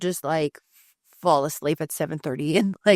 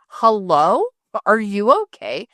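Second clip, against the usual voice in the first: louder, checking on someone lying there; calling out; 3 semitones higher, 5 dB louder, slower than usual. Retold or imitated. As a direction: call out louder with a rising hello. Calling out on walking in.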